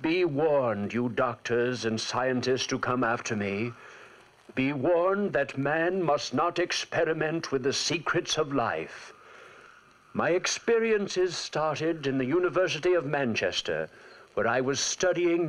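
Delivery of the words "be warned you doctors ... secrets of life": slow, grave narrator's warning; solemn warning. Acted. Victor warning future scientists, slow and grave. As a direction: warn those who come after you.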